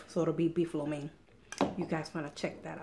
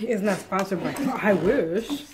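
laughing; 8 dB louder, slower than usual. Real, not acted. Laughing at husband's mix-up.

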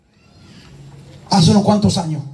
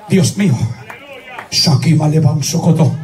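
mock incantation; 7 semitones lower than usual. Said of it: "Decía".

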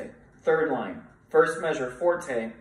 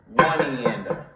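counting with a laugh; 5 dB louder than usual. Shown as a demonstration. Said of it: "louder than and uh softer".

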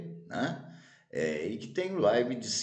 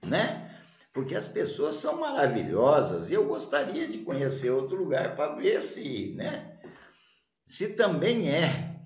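sweet eager wanderer; 3 semitones higher than usual. Acted. Cheerful second wanderer praises hometown.

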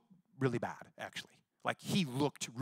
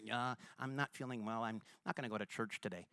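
mock lazy excuse; 5 semitones lower, 12 dB quieter than usual. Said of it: "sometimes we can say".

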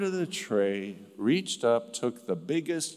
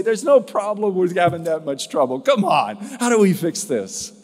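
loud upbeat encouragement; rally everyone to fix it together; cheerful resolve; 5 semitones higher, 7 dB louder than usual. Retold or imitated. Family cheerfully facing trouble together, loud and upbeat.

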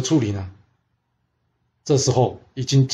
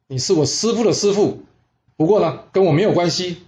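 mildly cheeky, higher-pitched retort; dismissive retort; 3 semitones higher than usual. Acted. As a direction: brush off the elder's claim, pitched up. 徒孙不认师祖. (略带不屑地提高音调回嘴)

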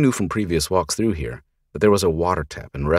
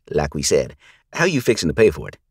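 mocking thug; 4 dB louder than usual. Gang leader mocks the girl.

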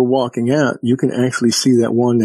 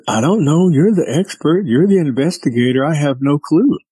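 higher-pitched, mildly exasperated retort; flustered protest; 4 semitones higher than usual. Retold or imitated. Witness retelling his reply to the investigator, mildly flustered. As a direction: throw the question back, pitch raised.

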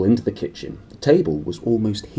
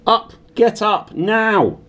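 high shrill shouting aunt waking him; 13 semitones higher, 5 dB louder, much slower than usual. Acted. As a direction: bang out a high, loud wake-up call. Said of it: "her shrill voice".

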